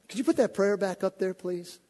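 usual speaking voice

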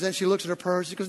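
ordinary talk, nothing marked

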